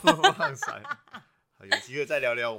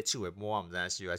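Taiwanese Hokkien; 2 semitones lower, faster than usual. Shown as a demonstration. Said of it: "然后我们就直接".

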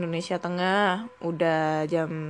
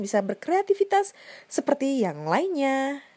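ad read; 3 semitones higher, 3 dB louder than usual. Acted. Sponsor read for Anchor app.

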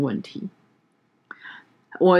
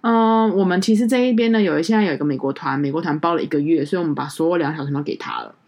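imitating hotel clerk. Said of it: "第一个他就说".

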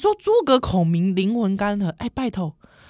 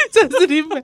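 loud, higher Hokkien swagger; Taiwanese Hokkien; 8 semitones higher, 4 dB louder than usual. Pretend. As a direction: brag it in Taiwanese slang.

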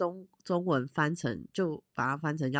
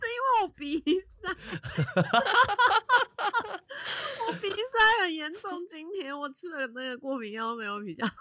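blocked nose; 12 semitones higher than usual. Real, not acted.

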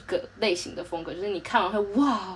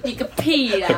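laughing; 4 semitones higher, 4 dB louder, slower than usual. Real, not acted. Friends teasing, laughing retort.

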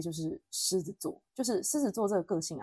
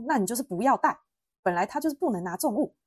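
mild retold scolding, raised and emphatic; 模仿姐姐生气; 4 semitones higher, 5 dB louder than usual. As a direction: imitate a fed-up sister telling you off. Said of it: "我姐就是已经很生气了". (模仿姐姐带点火气地数落)

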